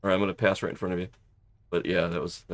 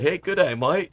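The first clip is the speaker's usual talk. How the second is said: imitated Aussie greeting; 7 semitones higher than usual. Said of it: "I love the Aussie accent".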